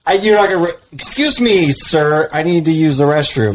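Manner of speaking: high, meek plea to a drill instructor; timid recruit voice. Retold or imitated. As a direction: squeak it out like a scared recruit. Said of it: "'cause you can be like".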